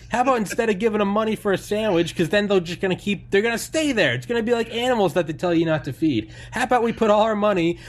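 high, loud screaming rant as Sam Kinison; Sam Kinison shout. Retold or imitated. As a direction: scream it like an unhinged comic. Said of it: "he goes".

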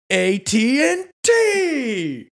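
high, loud, very slow drawn-out answer; mock triumphant. Shopper smugly answering the saleswoman, slow and triumphant. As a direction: drop the answer like a bomb. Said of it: "And I go".

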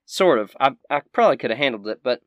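high, loud country crankiness; cranky Southern shopkeeper. Acted. Shopkeeper fed up with questions, cranky and high. Game master voices shopkeeper.

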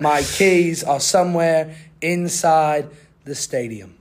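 put-on slow, emphatic British accent. Podcaster tells where his keys are, slow British accent. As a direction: spell out the mishap slowly, British style. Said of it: "I'll speak in a British accent".

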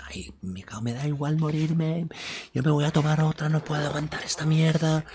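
high, strained voice without much volume; imitating yourself crying out in pain, alone; retold pained wailing. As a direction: wail through the pain, stretched out and high. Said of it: "Todo chillando solo".

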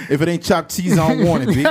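mock New Yorker through laughter; New York accent. New Yorker holding out for chopped cheese, mock New York accent. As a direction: send up a stubborn New Yorker. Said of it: "niggas in New York would be like".

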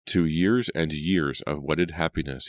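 slow, drawn-out toast; mildly grand, unhurried declaration; proclaiming. A narrator's reading. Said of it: "he proclaimed".

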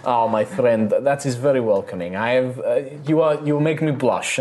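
bubbly innkeeper charming her guests; cheerful halfling innkeeper. Acted. GM voices innkeeper Rosalina.

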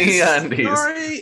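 slow ad read. Pretend. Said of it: "tell this like it was a podcast".

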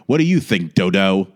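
therapist voice. Retold or imitated. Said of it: "the voice of her therapist who keeps going".

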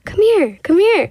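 put-on high, light child calling out; childlike call. Retelling the ghost voice to friends, high childlike call. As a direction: call sweetly like a little kid. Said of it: "it just sounded so, like, childlike".

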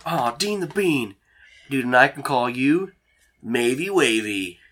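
overjoyed high-pitched dude; excited Dean. Acted. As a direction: gush like a delighted nerd. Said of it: "He looks the most excited".

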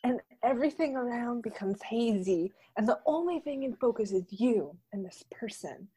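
soft, hushed lisping read; Drew Barrymore lisp. Acted. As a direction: read it dreamily with a slight lisp. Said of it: "I'll try to do it with, like".

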